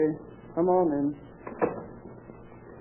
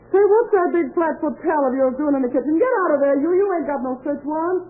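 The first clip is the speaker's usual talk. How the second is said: angry yelling; 8 semitones higher than usual. Acted. Edna yells at cop in kitchen.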